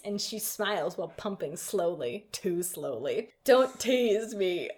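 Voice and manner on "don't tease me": slow, badly faked man voice; hammed-up male lead, very slow; attempted man's voice. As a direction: draw it out as a mock heartthrob. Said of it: "I can't do, like, a man".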